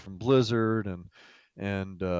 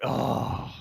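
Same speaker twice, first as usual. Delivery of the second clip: mock groan of dismay; imitated group groan; 3 dB quieter than usual. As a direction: groan as if hearing dreaded news. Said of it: "literally an audible groan".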